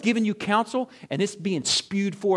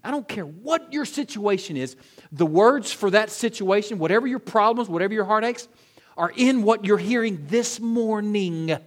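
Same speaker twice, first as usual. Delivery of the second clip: full-force preaching; 5 semitones higher, 6 dB louder than usual. Acted.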